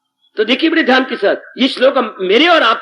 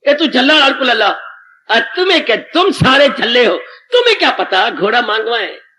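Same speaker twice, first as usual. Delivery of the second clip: raised, rough village scolding; heated Punjabi-flavoured scolding; scolding rustic. Acted. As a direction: tell the crowd off as a simple villager.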